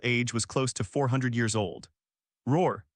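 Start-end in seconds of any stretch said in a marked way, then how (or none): 2.5-2.8 short roar. Acted. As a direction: bark the roar out in one burst. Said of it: "Accompanied by a low roar".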